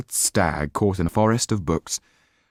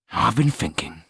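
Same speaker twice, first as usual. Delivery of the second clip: gloomy. Acted. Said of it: "he said gloomily".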